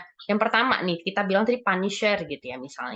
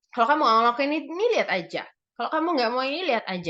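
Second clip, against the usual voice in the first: mild warning, higher at the start; a touch of menace from a punisher; mock threatening; 5 semitones higher, much faster than usual. Punisher to a disobedient child, mild acted threat. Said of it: "banyak ancaman-ancaman yang dikatakan oleh si punisher".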